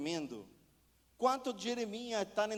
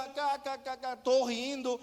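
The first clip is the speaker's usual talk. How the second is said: mock laughter; 3 semitones higher than usual. Mocks Christians laughing carelessly.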